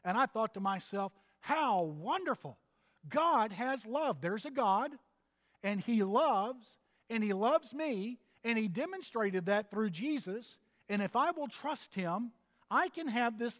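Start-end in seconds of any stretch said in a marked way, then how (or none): 1.4-8.2 slow, tender wonder. Retold or imitated. Preacher recalling boyhood joy at God's love, slow and tender. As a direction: savour each word like a child amazed.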